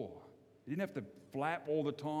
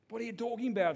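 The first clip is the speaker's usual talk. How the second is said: stunned disbelief; 8 semitones higher, faster than usual. Acted. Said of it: "with sort of a stunned expression".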